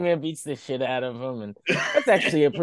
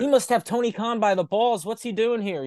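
higher, wide-eyed backstage chatter; mock gossip voice; 7 semitones higher than usual. Wrestlers whispering about Russo, mock gossip.

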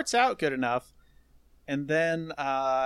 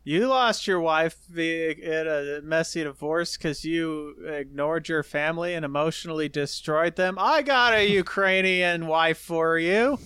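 a hammed-up Trump pitching a wife; mock Trump; 2 semitones higher, 5 dB louder than usual. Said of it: "Donald Trump said".

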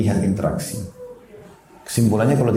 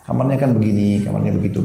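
gentle coaxing; 2 semitones lower than usual. Retold or imitated. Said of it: "Saya rayu baik-baik".

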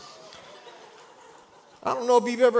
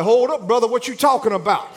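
incredulous Alabama retort; 4 dB louder than usual. Retold or imitated. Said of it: "Look, I'm from Alabama".

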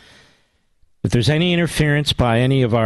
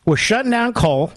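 indignant outrage; 9 semitones higher than usual. Real, not acted. Caller describes shutdowns, host erupts.

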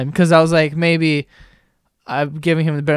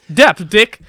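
loud, higher mock yell; retold yelling; 4 semitones higher, 7 dB louder than usual. Imitating the friend yelling at him like he's stupid, yelling. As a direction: yell it back, "debt" said as "dept". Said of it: "He's yelling at me".

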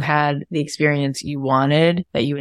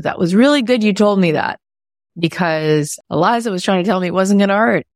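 grateful daughter; 5 semitones higher, 4 dB louder than usual. Retold or imitated. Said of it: "she goes".

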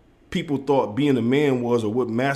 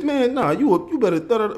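mock angry; 10 semitones higher than usual. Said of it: "I get mad at some basketball shit".

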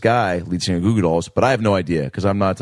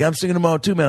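put-on drunk rock singer; 7 semitones higher, faster than usual. Drunk singer tells the teen about his gig, higher and slurred. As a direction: play the hammered singer bragging lightly. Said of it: "making him sound like a drunk rock singer".

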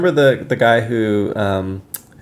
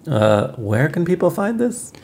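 slow, soft interviewer question; playing Raph; 4 semitones higher, 4 dB quieter, slower than usual. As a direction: ask it gently, taking your time. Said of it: "I'm performing you".

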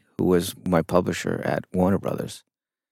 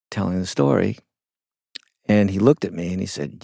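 usual speaking voice

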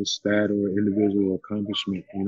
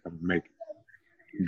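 much softer, slow hushed repeat; slow, hushed vow said again close to her ear; retold whisper; 3 semitones lower, 10 dB quieter, slower than usual. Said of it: "I whispered in her ear".

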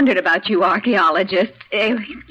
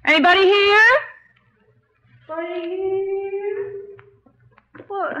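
high, raised calls into emptiness; calling out; 10 semitones higher, slower than usual. Acted. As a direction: call out searching for anyone. Searching, calling into empty camp.

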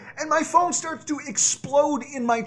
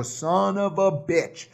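lower, drawn-out exasperated swear; slow retold curse; 4 semitones lower, much slower than usual. Fan recalls cursing at missing the touchdown, slow exasperation. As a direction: stretch the curse out, low and disgusted.

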